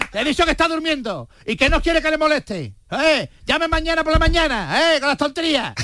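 a lightly voiced grumpy soldier brushing him off; annoyed soldier. Soldier on guard duty snapping at the general, lightly acted. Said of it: "le gritó el soldado".

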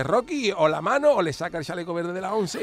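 hammed-up corner shout at the fighter; mock coach shout. Trainer yelling at Rocky between rounds, mock shout.

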